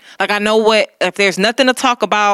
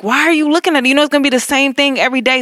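exasperated self-talk; 6 semitones higher, faster than usual. Retold or imitated. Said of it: "but I'm like".

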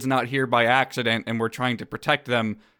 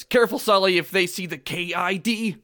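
higher-pitched cautioning character voice; Mike; 6 semitones higher than usual. Acted. Monster cautions his partner about the child, higher-pitched warning. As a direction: warn your partner, voice raised in pitch. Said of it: "Mike says".

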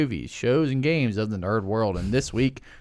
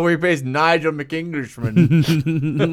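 put-on English accent; 4 semitones higher, 4 dB louder, much slower than usual. Mocking English character.

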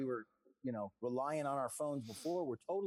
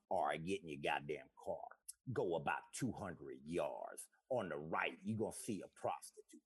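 much lower, gruff street-wise navigation voice; a lower, softer tough guy giving turn-by-turn directions; rapper impression; 9 semitones lower, 3 dB quieter than usual. Comic's car navigation voiced by a lower, streetwise rapper. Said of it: "I did my rapper impression".

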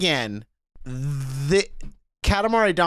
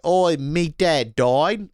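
slow mock Aussie accent, a touch hammed-up; mock Aussie mourner; 3 semitones higher, slower than usual. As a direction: play a mourner dropping syllables. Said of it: "be like".

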